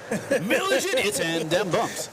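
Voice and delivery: very slow announcer call through a laugh. Shown as a demonstration. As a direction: drag out the team names, laughing. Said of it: "that's my announcer voice".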